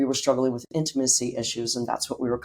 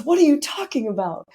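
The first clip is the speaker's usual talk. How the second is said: father's voice; 13 semitones higher, 5 dB louder than usual. Retold or imitated.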